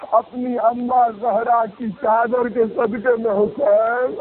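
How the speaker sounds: very slow, drawn-out plea; slow pleading lament. Acted. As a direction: beg for mercy, stretching each word. Hurr begs Husain's forgiveness.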